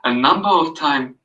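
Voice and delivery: calm, even read-aloud of a passage; soothing reading. Acted. Reading Carl Rogers to a friend, soothing read-aloud. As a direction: read it gently, like an audio book. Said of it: "It was so soothing".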